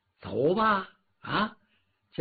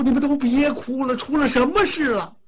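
higher, louder royal demand; angry Dragon King; 8 semitones higher, 3 dB louder than usual. Acted. The old Dragon King demands why his court is crying, angrily. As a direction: stamp your foot and demand an answer.

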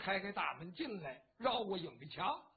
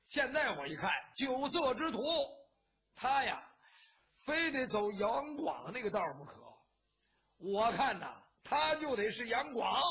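louder, raised voice, a tipsy loudmouth; loud drunken boasting; 4 dB louder than usual. Acted. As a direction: holler it across the room after drinks. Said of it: "在屋子里边扯着嗓子那说". (借着酒劲扯着嗓子大声嚷)

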